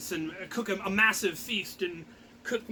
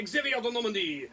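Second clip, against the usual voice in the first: lightly dramatic, slowing at the end; romance blurb read; 3 semitones higher than usual. Retold or imitated. Reading the doll's label aloud as a swooning romance ad. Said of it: "on the back it says".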